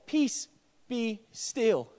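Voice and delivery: "Peace, be still" said softly and low; soft quoted command. A narrator's reading. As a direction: let it fall quietly, almost calm. Quiet first quoting of command.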